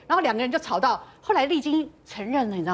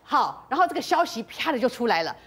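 ordinary talk

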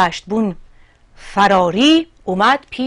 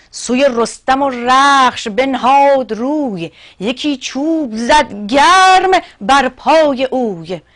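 raised-pitch, emphatic epic verse; poem recitation; 4 semitones higher, 5 dB louder, slower than usual. Acted. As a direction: declaim the blow in measured verse. (شعرخوانی حماسی با صدای بالا)

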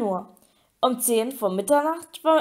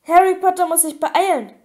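high, urgent elf squeak; Dobby; 6 semitones higher, 4 dB louder than usual. A narrator's reading. House-elf hurries Harry to the task, urgent squeak. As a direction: squeak it like an anxious little servant. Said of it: "quiekte Dobby".

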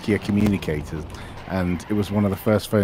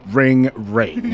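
mock human ringtone, higher than usual; sarcastic spoken phone ring; 4 semitones higher than usual. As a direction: imitate your own sarcastic recorded ring. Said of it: "my voice in the room just going".

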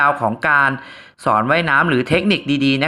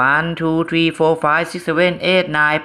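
very slow, drawn-out counting; much slower than usual. Shown as a demonstration. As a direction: count each number out slowly. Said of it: "เราจะให้จังหวะในการนับ".

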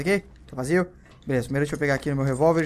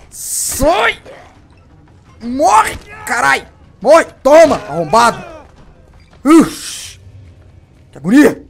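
high, loud screams at zombies that won't die; panicked screaming; 10 semitones higher, 13 dB louder, much slower than usual. Real, not acted. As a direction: yell in real panic, way up high. (gritos de pânico, bem agudos e altos)

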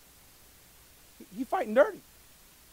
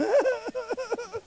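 high-pitched awkward laugh; 13 semitones higher than usual. Real, not acted. Preacher reacting to the congregation, high awkward laugh. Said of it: "there was that awkward laugh".

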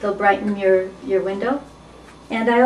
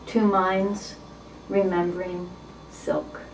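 measured poetry reading, falling away at line ends; poem reading. Acted. Reading a sexy poem to its author on her birthday, poetry reading. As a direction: read the poem with pauses between phrases.

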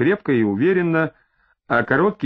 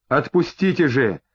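usual speaking voice

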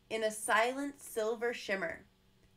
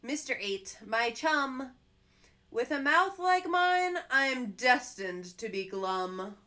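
helpless fish; 6 dB louder than usual. Acted. Fish telling Mister Jelly it isn't up to him, mildly pleading. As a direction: plead it, sorry but stuck.

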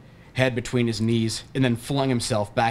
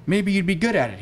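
fake dad voice; 8 semitones higher than usual. A narrator's reading. Fake dad's higher voiced line.

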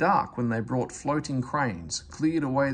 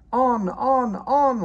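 higher, louder, gleeful trucks cheering; laughing trucks; 11 semitones higher, 8 dB louder, much slower than usual. A narrator's reading. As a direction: trucks egging him on with a laugh. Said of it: "laughed the trucks".

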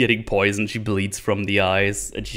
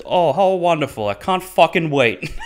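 high, loud mock cheer with a laugh; sarcastic delight; 7 semitones higher, 5 dB louder than usual. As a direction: sneer it out as fake delight. Tangerine's sarcastic reply.

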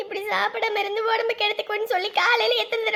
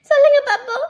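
wife daring her husband to reply, louder; louder challenge; 4 semitones higher, 7 dB louder than usual. Acted. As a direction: demand it again, louder and higher.

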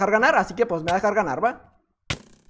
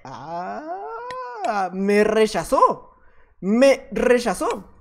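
mock dejected; much slower than usual. Real, not acted. Player refused his photo.

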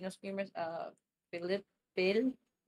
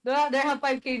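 surprised; 6 semitones higher, 6 dB louder than usual. Real, not acted. Surprised at follower count.

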